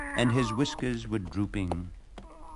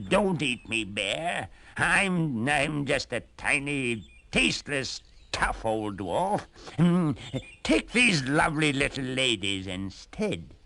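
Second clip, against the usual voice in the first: a frightened little man begging for his life; terrified pleading; 5 semitones higher than usual. Acted. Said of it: "The dwarf was terrified".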